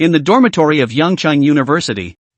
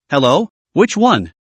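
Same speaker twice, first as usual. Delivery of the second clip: lazy voice. Acted. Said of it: "said in a lazy voice".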